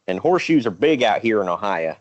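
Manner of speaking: light Southern accent slipping out. Real, not acted. Podcaster talking horseshoes in Ohio, accidental Southern accent. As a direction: say it with a hint of Southern twang. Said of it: "said that in a Southern accent".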